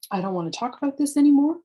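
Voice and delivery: exasperated parent cutting the talk off quickly; fed-up parent snapping. Shown as a demonstration. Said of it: "we're just shutting them down like that".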